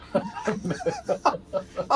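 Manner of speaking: high burst of laughter; amused high-pitched laughing. Real, not acted. Player laughs at own plan.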